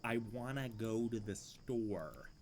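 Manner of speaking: slow, drawn-out I wanna go to the store; accented take. Shown as a demonstration. Streamer repeating test phrase, slow accented. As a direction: lean on the accent, slowly. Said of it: "That's my command phrase".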